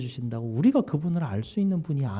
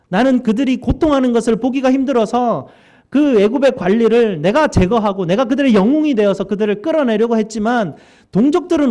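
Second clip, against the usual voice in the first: loud, rising protest to God, louder on lines 14 to 18; Moses protesting; 5 semitones higher, 5 dB louder than usual. Acted. Preacher voicing Moses protesting to God, rising loud plea. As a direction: plead like a hurt, bitter man talking back to God.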